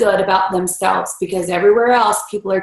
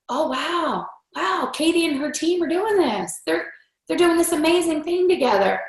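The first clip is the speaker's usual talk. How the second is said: softer, hushed admiring wow; impressed awe; 6 semitones higher, 5 dB quieter than usual. Retold or imitated. People admiring Katie and her team, soft impressed wow. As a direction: quietly marvel at what the team did.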